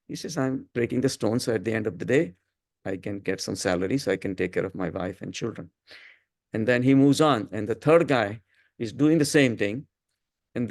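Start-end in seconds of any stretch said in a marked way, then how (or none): 0.4-5.7 even, matter-of-fact reply; a lightly voiced calm worker explaining simply; a plain calm stone cutter. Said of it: "He was calm".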